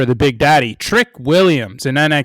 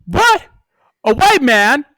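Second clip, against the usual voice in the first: high, outraged sitcom voices; acted sitcom bit; 13 semitones higher than usual. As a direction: play the indignant sitcom scene, much higher. Acted New Girl scene exchange.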